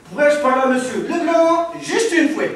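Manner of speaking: put-on Belgian accent with a chuckle; mock Belgian accent. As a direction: play a Belgian producer, hamming it up. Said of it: "Je suis producteur belge".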